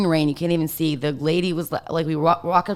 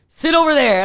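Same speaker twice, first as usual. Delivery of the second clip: sharp, much higher and louder command; retold yell; 10 semitones higher, 6 dB louder than usual. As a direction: bark it at her to move away. Assistant snaps at her in car.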